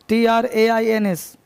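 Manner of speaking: slow letter-by-letter dictation; teacher dictating letters; spelling out. Shown as a demonstration. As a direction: spell each letter slowly for students to write. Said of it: "teacher spelling out for dictation".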